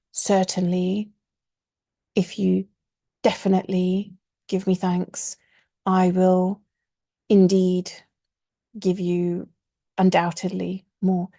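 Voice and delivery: deliberately over-emphasize each word like Certainly and indeed; clumsy mock over-stressed promise; piled-up emphasis. Shown as a demonstration. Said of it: "It doesn't sound good in English".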